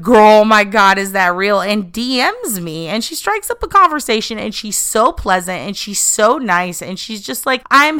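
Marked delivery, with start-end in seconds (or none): 0.0-1.6 excited quote. Retold or imitated. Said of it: "Rebby responds with".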